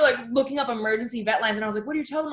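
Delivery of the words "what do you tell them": mock panic. Retold panic about calling the vet.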